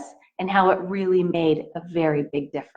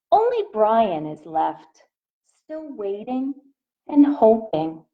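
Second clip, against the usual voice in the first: gentle picture-book read-aloud voice; reading to children; slower than usual. A narrator's reading. Teacher reading a picture book to her class, in a gentle read-aloud voice. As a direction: read it out to the little ones, asking.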